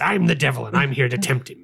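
lightly voiced Irish leprechaun devil; playful devil with a hint of leprechaun brogue. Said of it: "Why does the devil sound like a leprechaun?".

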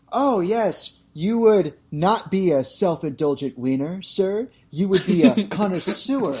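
butter up the customer, lightly; fawning car dealer. Retold or imitated. Car dealer flattering Nick Cage, a hint of fawning. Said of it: "the dealer goes".

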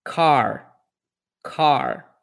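car with an American R at the end; English R demo. Shown as a demonstration. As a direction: say car with a curled final R.

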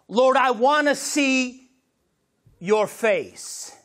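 slow, forceful plea in broken phrases; fervent recited prayer. Real, not acted. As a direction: declaim worship lyrics as a prayer to God.

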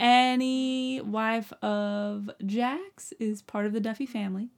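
light, bad Southern accent; a hint of a syrupy Southern lady. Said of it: "My terrible Southern accent".

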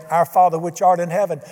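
steady prayer cadence, each "You are" lifted. Shown as a demonstration. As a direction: pray it as a daily example. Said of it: "many times during the day".

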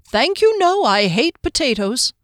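high, quick polite refusal; halfling voice. Acted. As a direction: brush off the food cheerily. Hector declining food.

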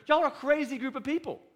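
high, loud mocking sneer; mocking outsider. Preacher mimics outsiders jeering at believers, high mocking sneer.

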